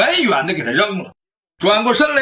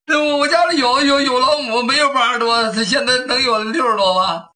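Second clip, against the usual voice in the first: flustered thief; 4 semitones higher than usual. Acted. Thief confesses.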